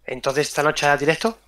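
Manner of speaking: hushed conspiratorial question; whisper. Real, not acted. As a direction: whisper it like a secret. Asks about stream in whisper.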